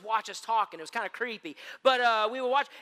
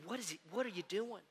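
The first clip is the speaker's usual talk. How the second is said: puzzled disciple; 10 dB quieter than usual. Retold or imitated.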